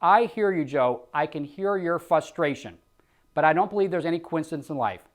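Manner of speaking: understanding agent voice; calm empathetic sales reply. Shown as a demonstration. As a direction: show you feel their frustration. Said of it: "I'm empathetic to what they're going through".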